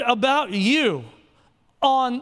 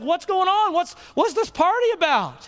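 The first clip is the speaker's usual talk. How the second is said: put-on older son, higher, asking what the party is about; eager question about the party; curious older son; 6 semitones higher than usual. Older son asking a servant, raised eager question. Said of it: "he's like".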